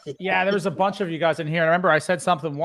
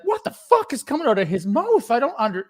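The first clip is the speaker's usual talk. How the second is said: baffled wife; 7 semitones higher, 3 dB louder than usual. Retold or imitated. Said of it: "his wife looked at me like".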